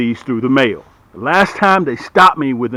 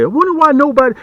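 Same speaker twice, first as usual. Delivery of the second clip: quoting a video complainer; 11 semitones higher, faster than usual. Retold or imitated. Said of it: "I saw somebody's video say".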